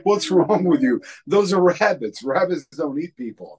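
high and loud, scolding disbelief; loud high incredulous scolding. Retold or imitated. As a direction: tell him off like he's lost it. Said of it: "She was like".

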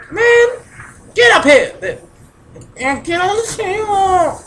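loud, high yell at a teammate. Real, not acted. Yelling at a teammate to get up on the table, loud and high. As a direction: shout him up onto the table.

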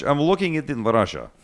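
Russia with a rolled Russian r; hint of a Russian accent throughout. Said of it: "with my most excellent Russian accent".

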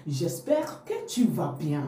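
J'espère que tu vas bien said slowly, word by word; slow careful model. Shown as a demonstration. Teacher models the phrase for the learner, slow and clear. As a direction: spell it out slowly for the class. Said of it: "slow model sentence for learners".

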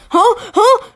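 incredulous huh, climbing; rising confused huh. Real, not acted.

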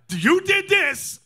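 high, slow, loud wail; mock crying accusation. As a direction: wail the blame in fake tears. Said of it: "Stop that crying".

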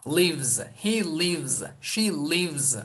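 "lives" as livz each time; voiced z ending. Shown as a demonstration. Teacher models he and she forms, z ending. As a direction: finish every "lives" on a buzzed z. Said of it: "Buna dikkat edelim".

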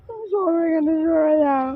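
real tearful plea; upset, weepy voice; crying. Real, not acted. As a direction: push him away through tears. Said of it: "তা কাঁদছো কেন".

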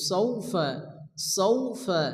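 "সৌফা" with gentle gliding "সৌ"; teacher's soft model "সৌফা"; soft quick diphthong. Shown as a demonstration. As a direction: glide softly through "সৌফা". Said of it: "নরম আওয়াজ তাড়াতাড়ি পড়তে হবে".

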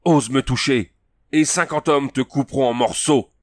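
a cornered warrior shrieking a threat at Conan; piercing cry. A narrator's reading. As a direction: scream the threat as you back away. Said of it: "cria-t-il d'une voix perçante".

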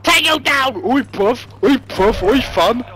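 game shout of oi bruv. Real, not acted. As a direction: call out across the map. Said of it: "That's what he was shouting".

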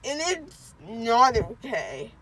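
sulky and weepy; crying. Real, not acted. Drugged child after dental surgery.

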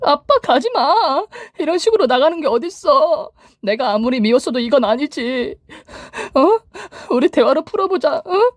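very high, slow tearful pleading; cling and beg dad not to go; desperate begging daughter. A narrator's reading. Daughter begging her leaving father to stay, high and desperate.

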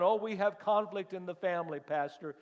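high, loud litany of complaints; loud preached voicing. Church members telling the pastor their conflicts, preached high and loud. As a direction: cry out the list of troubles, slowing at the end.

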